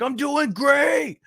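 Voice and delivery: squeaky, very high and slow; giddy reply. Pretend. Vlogger playing his own delighted reply, squeaky high falsetto. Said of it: "And I'm just like".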